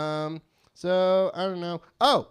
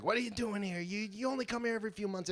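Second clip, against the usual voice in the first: store clerk yelling; 6 semitones higher, 5 dB quieter, faster than usual. Retold or imitated. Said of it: "He's always like".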